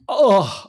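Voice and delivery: high, loud "oh" of being moved; an emotional "oh"; pained groan. Retold or imitated. Reacts to the moving line.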